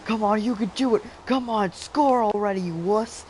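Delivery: high, loud mock drill sergeant bark; drill instructor yell. Kid yelling at a teammate on the basketball court like a drill instructor. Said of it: "I'm, like, yelling at him".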